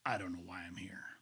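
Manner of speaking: barely whispered, halting; stammered whisper. Retold or imitated. Pastor at the stranger's door, whispered in a halting way. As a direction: get the words out in a frightened whisper. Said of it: "I'm barely able to stammer out".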